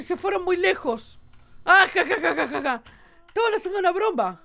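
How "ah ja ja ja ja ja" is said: mock laugh. Reading a character laughing.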